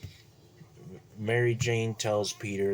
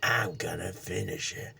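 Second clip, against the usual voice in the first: a lower, menacing villain voice; 3 semitones lower than usual. Retold or imitated. Green Goblin taunts Spider-Man in a low, menacing voice. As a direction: growl the threat lower, slowing at the end.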